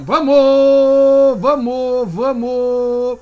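shouted encouragement, building then easing; loud cheering. Real, not acted. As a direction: yell it out to push them on. Cheering on a rider.

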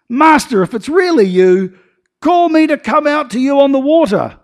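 high, loud, eager call across the water; bold call. Acted. Peter calling to Jesus from the boat, high and loud. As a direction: call out with sudden nerve. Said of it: "Peter is suddenly emboldened".

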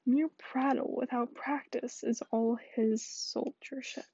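hushed Shakespeare reading; whispered play reading. Acted.

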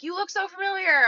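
high, put-on chat-up line; mock club guy. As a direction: imitate an over-familiar guy at the club. Acts out a guy approaching her.

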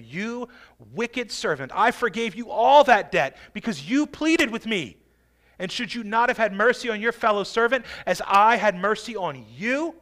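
preacher voicing an indignant master; angry master. Master rebukes the servant who begged him, angry. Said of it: "And in anger, his master".

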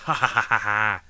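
loud burst of laughter; laughing after finally remembering the name; relieved laugh. Real, not acted. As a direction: laugh it out, pleased with yourself.

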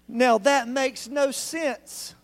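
slow emphasis. Real, not acted. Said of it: "preacher stressing point".

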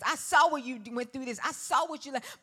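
booming preacher voice, fast and loud; thundering pulpit delivery; full-force preaching. Acted. Voicing God, preaching hard.

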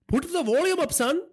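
high-pitched, commanding crime boss; domineering father. A narrator's reading. Father tells son to turn up television, commanding.

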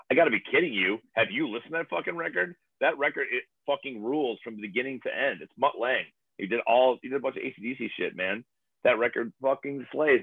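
high, hammed-up outrage; over-the-top defense of a record; mock outraged defense. Arguing about a band with friends, hammed-up outrage.

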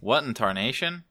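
slow hammed-up prospector drawl; old prospector. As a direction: play a grizzled old gold miner. Sudden folksy exclamation.

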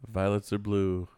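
mock poem recital. Mock valentine poem to an enemy, slow and low.

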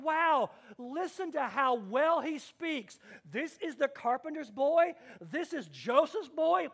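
mildly wowed, pitch lifted; amazed onlookers. Retold or imitated. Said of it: "they were amazed".

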